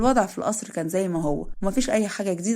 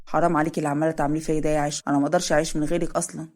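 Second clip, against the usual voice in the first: slightly lower, a touch of reproach; a hint of the husband begging her; lightly voiced pleading husband; 4 semitones lower than usual. Narrator voices Zein pleading.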